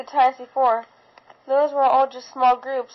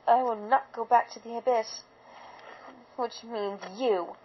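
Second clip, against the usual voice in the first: menacing; 3 semitones lower, 7 dB quieter than usual. A narrator's reading. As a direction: quietly promise death. Threat to the foal.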